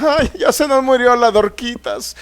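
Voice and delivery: a touch of mocking lament; mock wailing widows. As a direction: mimic the mourning widows with a hint of whine.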